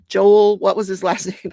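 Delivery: calling out. Real, not acted. Calling out to her brother.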